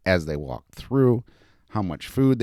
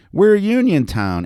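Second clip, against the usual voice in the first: put-on excited little girl; 12 semitones higher, 7 dB louder than usual. A narrator's reading. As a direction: declare it proudly in a child's pitch. Little girl romping, announces her town.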